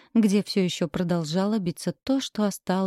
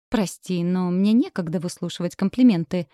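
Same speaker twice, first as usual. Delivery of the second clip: snide hiss. Acted. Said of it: "ехидно зашипела я".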